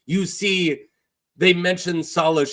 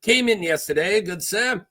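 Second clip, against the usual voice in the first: Salladhor Saan; 3 semitones higher than usual. Acted. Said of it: "what am I doing with this accent".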